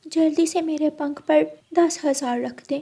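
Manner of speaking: put-on high playful girlish voice; teasing little sister. Bride's sister teasing groom for shoe money, high and playful. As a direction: tease the groom cheekily.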